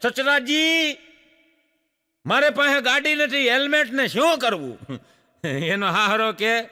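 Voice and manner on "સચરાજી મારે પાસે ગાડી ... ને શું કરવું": a lightly voiced, higher puzzled son-in-law; puzzled groom. Groom asks father-in-law about the helmet, mildly puzzled. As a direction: play the naive groom asking. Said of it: "એને જમાઈ કે".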